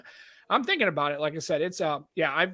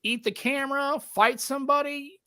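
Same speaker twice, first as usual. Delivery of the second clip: climbing higher with mock disbelief; incredulous friend; 6 semitones higher than usual. Friend mocking his odd photo face, rising incredulous voice. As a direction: tease him like a baffled friend. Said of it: "She goes".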